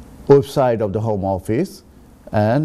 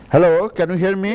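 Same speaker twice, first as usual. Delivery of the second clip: raised voice over a bad line; louder; 7 semitones higher, 3 dB louder than usual. Real, not acted. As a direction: speak up so the caller hears. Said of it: "I'll be a little bit louder".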